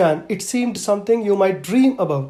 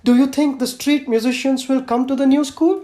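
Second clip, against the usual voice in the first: put-on higher, eager little-girl question with a rising end; joyful child question; 7 semitones higher, faster than usual. Little girl asking Mother about street musicians, joyful. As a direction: ask it full of hope and delight. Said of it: "was asking joyfully".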